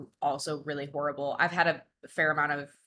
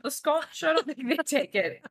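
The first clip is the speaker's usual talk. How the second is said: high squeaky voice; 8 semitones higher than usual. Real, not acted. High cute voice continues.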